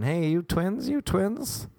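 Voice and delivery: high-pitched call without real volume; mock shouting. Strangers calling to two friends in the street, mock shout. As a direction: imitate a passer-by hollering, pitch climbing. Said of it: "people just shouting".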